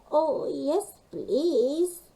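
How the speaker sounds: high hopeful pleading; eager penguin plea. A narrator's reading. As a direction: beg for help eagerly. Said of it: "called Gasper".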